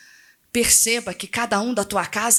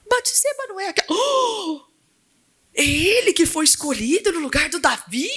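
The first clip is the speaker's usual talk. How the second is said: gossiping crowd; 3 semitones higher than usual. Retold or imitated. People of Israel gossip about Solomon, scandalized. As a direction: gossip in disbelief like the busybody crowd. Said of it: "eu imagino o bafafá no meio do povo".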